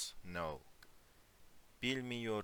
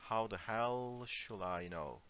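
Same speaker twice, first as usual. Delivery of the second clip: dismissive. Shown as a demonstration. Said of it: "Okay, it's more like".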